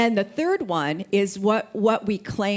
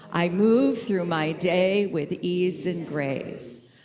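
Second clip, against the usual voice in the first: slow, deliberate repeat of the affirmation; slower than usual. Shown as a demonstration. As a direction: let each word land slowly. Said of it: "how are we gonna move through the day?".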